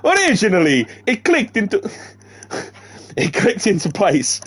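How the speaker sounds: high cartoon Italian accent, laughter breaking in; Mario. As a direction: struggle through a comic Italian accent. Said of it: "I've got Mario now".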